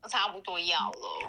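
soft unvoiced whisper. Real, not acted. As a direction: whisper it shyly. Whispers about pumping.

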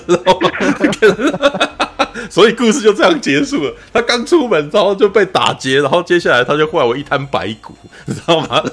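words bubbling out between laughs; laughing. Real, not acted. Retelling how the film ended, laughing hard throughout.

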